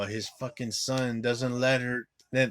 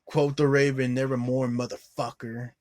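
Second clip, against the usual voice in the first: quoting the hero; 2 semitones higher, 6 dB louder than usual. Retold or imitated. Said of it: "I did like this line, how he said it".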